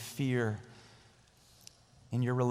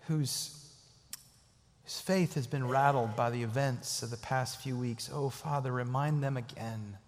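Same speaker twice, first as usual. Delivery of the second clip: prayer. Acted. Leads prayer.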